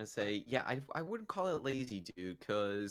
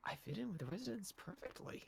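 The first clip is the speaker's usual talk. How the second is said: higher, softer character line; lightly voiced character; 10 semitones higher, 7 dB quieter than usual. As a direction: deliver the line smugly. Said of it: "you continue with".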